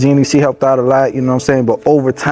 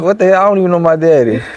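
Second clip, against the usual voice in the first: pitched up, half-shocked disbelief; a retold incredulous outburst, higher; stunned disbelief; 6 semitones higher than usual. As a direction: replay the shock at hearing the name.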